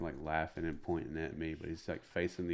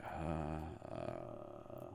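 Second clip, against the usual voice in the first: long, soft stalling "uh"; hesitant uh; 7 dB quieter than usual. Retold or imitated. Comic stunned by an early call to go on, hesitant.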